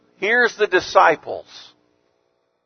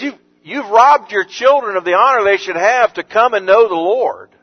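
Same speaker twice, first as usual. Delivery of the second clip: indignant; 4 semitones higher, 3 dB louder than usual. Retold or imitated. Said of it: "It says he was indignant".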